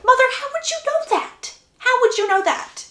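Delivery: high-pitched incredulous demand; acted exasperation, high and insistent; exasperated. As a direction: challenge her, voice shooting up high. Exasperated daughter challenges mother.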